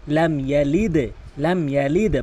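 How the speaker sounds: ইয়ালিদ with the দ bounced down; correct qalqala. Shown as a demonstration. Teacher showing the right ইয়ালিদ. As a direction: end ইয়ালিদ with a downward bounce. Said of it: "তাহলে এখানে কী হবে".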